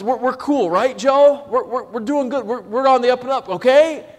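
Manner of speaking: anxious wheedling, pressing for a yes; nervous brothers. Retold or imitated. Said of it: "to put it in modern parlance".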